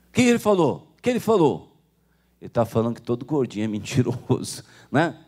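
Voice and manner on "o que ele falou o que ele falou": high, loud demanding question; mother insists on knowing; alarmed mother. Acted. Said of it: "mother asks again". (mãe aflita, voz aguda e alta)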